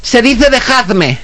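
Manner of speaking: high, slow, laughing know-it-all tone; smug correction. Retold or imitated. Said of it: "y me dice". (corrección pedante, aguda, lenta y entre risas)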